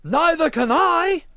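high, loud, slow shout; booming. Acted. Wally answers Emma from the riverbank, booming. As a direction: shout it back at full volume.

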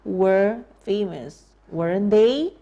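were famous said slowly with stress on were, weren't they rising; slow it right down, leaning on were; slow drill. Shown as a demonstration. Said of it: "Ya, bukankah begitu?".

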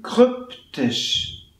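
"kryptisch" with a short Ü, almost Ö; short Ü model. Shown as a demonstration. Teacher modelling the short Ü in "kryptisch". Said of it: "Ö, hm?".

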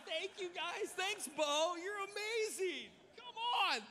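thrilled to get ribs on stage; real excited shout. Real, not acted. Pastor handed ribs mid-sermon, shouting with joy. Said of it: "I'm so excited".

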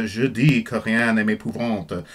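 slow, careful French pronunciation; French lyric read out. Shown as a demonstration. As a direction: say the French line slowly and clearly. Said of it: "so that first line".

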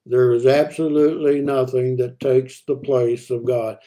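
slow, deliberate delivery, word by word; spelled out slowly and deliberately. Shown as a demonstration. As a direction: say it very slowly so each word lands. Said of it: "I want to say this very slowly".

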